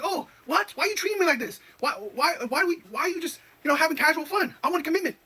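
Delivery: hammed-up wounded girlfriend voice; mocking whiny woman. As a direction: parody her indignant pleading. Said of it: "They're like".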